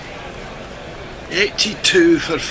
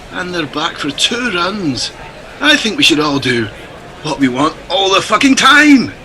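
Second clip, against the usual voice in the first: put-on Scottish accent. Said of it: "keep accents up".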